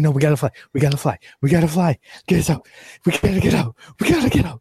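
high, crying and desperate; terrified crying. Acted. Chip terrified of the giant baby head, high crying panic. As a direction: plead as if the monster is there. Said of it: "He's like".

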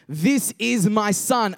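a hint of a booming divine voice; slow, weighty proclamation from the cloud. Voice from the cloud naming his son, mildly booming. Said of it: "a booming voice".

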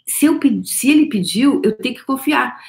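usual speaking voice

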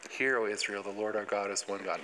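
low-key, concentrated recitation of a prayer; focused prayer. Retold or imitated. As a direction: recite it like a child praying with focus. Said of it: "It'd be s-, concentration and focus".

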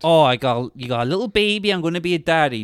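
lightly voiced southern accent; half-hearted southern accent, cartoonish; weird southern accent. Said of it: "He's doing a weird southern accent".

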